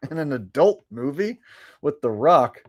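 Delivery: laughing, incredulous rising question; amused disbelief. Real, not acted. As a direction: repeat it like you can't believe it. Repeats request in disbelief.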